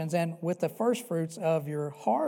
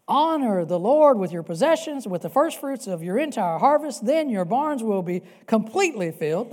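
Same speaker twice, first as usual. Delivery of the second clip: louder proclamation of the verse; forceful scripture reading; 3 semitones higher, 6 dB louder than usual. Real, not acted. Preacher reads scripture with force.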